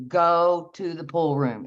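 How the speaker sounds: slow, insistent command with weight on GO. Retold or imitated. Inner voice ordering her out of bed, slow command. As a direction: order it slowly, leaning on the first word. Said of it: "a demand, a command thing".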